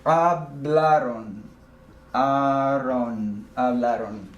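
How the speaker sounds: hablaron slowly, ending aron singled out; slow Spanish. Shown as a demonstration. Teacher breaking hablaron into its ending for students. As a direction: stretch hablaron, then isolate aron. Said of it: "the last category".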